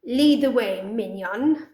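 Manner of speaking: commanding sea witch, ringing out; loud command. Acted. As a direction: order the minion loudly. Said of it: "She then pronounces loudly".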